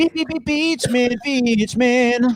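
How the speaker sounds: high, stuttered insistent repeat; urgent clue-giving. Real, not acted. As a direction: stammer the clue out against the clock. Urging partner as time runs out.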